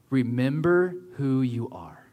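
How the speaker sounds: slow whispered Mufasa impression; James Earl Jones voice. Preacher voicing Mufasa to Simba, slow and whispered. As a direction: breathe it like a wise ghost king. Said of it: "in the best voice possible".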